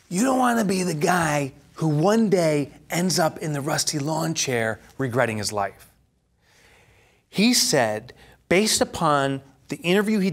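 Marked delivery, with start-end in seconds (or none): 0.1-5.9 put-on Godfather accent. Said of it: "accent just like The Godfather".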